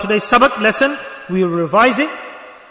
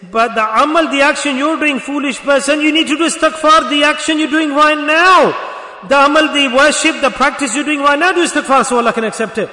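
raised, insistent exhortation; forceful preaching; 5 semitones higher, 4 dB louder than usual. Real, not acted. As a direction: preach it hard, high and loud. Exhorts congregation at full force.

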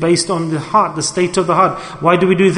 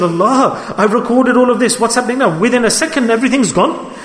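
higher-pitched, puzzled protest; acted bewilderment, pitched up; baffled disbelief; 5 semitones higher than usual. The recorder asks Allah where the record went, baffled.

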